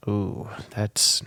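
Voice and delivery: breathy shocked whisper; whispered ooh. Real, not acted. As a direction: gasp it under your breath. Reacting to creepy bot reply.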